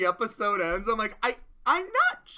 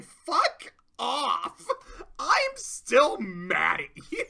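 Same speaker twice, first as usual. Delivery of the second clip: angry yell; 5 semitones higher, 5 dB louder, much slower than usual. Retold or imitated. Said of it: "Pinky's like".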